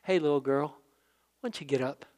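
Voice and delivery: soft, gentle coaxing; tender. Retold or imitated. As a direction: softly wake a little child. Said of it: "I just love the tenderness of this".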